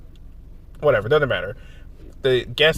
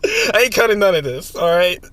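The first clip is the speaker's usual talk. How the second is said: cute anime streamer; 8 semitones higher, 7 dB louder than usual. Real, not acted. Teasing friend while laughing.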